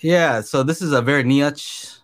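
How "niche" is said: NICHE said "nee-atch", in two parts; joke mispronunciation. Acted. Friend deliberately adopting the silly word, niche as "nee-atch". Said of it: "start saying like that now".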